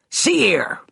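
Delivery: a touch of desperation in the butler; flustered butler pleading; desperate. Acted. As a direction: sputter at her, losing ground. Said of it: "Desperation had crept into Finch's voice".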